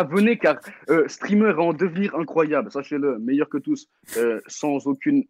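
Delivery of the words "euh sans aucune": trailing off. Real, not acted. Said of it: "Finis tes phrases".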